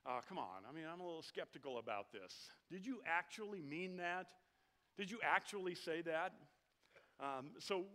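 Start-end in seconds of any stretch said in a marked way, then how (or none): 0.2-6.3 doubting, probing question; a skeptic who can't quite believe it; skeptical. Retold or imitated. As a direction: lean in with mock suspicion. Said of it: "what's coming next is".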